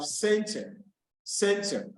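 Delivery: CENTER with the stress on CEN; stress on first syllable. Shown as a demonstration. Teacher giving students examples of nouns, first-syllable stress. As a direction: say center twice, leaning on the opening syllable. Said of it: "while I'm pronouncing them, the pitch".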